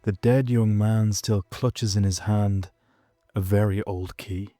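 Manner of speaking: measured poetry reading with long pauses; unhurried recital, pausing after each phrase; poem recitation. Acted. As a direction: read it solemnly, line by line, letting each image hang. Recites the poem opening the podcast.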